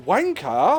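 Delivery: Wanker? with a rising American R at the end; puzzled rhotic wanker; imitating American. Imitating the friend mispronouncing the swear word, puzzled. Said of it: "you sort of went".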